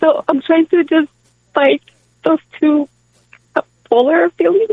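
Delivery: tearful speech, crying while talking. A caller speaks to a host, crying while talking. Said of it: "because you're crying".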